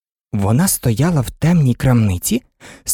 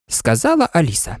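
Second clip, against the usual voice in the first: plain reading voice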